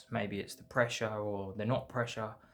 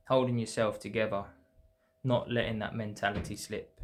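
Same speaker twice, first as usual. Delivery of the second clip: poem recitation. Acted. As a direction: draw out the lines with pauses between them. Reads own winter dip poem.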